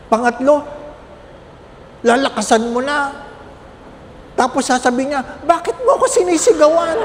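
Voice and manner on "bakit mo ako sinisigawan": higher, quick, offended complaint; hurt mother snapping back; aggrieved old mother. Retold or imitated. Deaf mother scolding her child for shouting, higher and quick.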